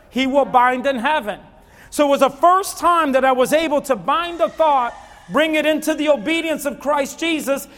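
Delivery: loud, high sermon voice, pressing every line; full-force preaching. Acted. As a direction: build the congregation up with a loud preach.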